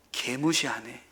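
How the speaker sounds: low, quiet grumble to oneself; understated, acted feeling of being snubbed; slighted aside. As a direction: voice a hurt inner thought, dropped low and soft. Same thought in teenagers' slang.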